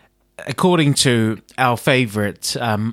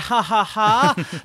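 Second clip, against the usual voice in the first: strained laugh; 7 semitones higher, much slower than usual. Retold or imitated. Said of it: "Second time you say is like".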